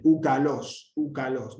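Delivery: úcalos run together as one word, stress on los; proclitic demonstration. Shown as a demonstration. Teacher repeats the example for students, úcalos as one unit. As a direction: say úcalos joined, first syllable unaccented. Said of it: "no ven".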